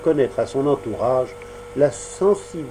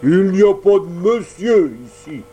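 loud, higher gruff rebuke; harsh reply; 6 semitones higher, 6 dB louder than usual. Acted. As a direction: cut him off harshly. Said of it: "répliqua durement Mangefeu".

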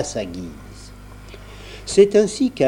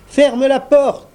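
high slow voice; 13 semitones higher, 5 dB louder, slower than usual. A narrator's reading. Salive voice answers.

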